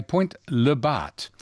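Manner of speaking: slow, careful hint of French on Labat; French accent. Shown as a demonstration. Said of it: "with a French accent".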